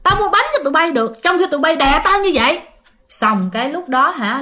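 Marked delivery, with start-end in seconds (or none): 0.0-2.6 higher-pitched retold protest; mildly indignant telling-off, pitch raised; retold scolding. Woman answering the ghost children holding her down, mildly indignant retort. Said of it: "chị mới chửi".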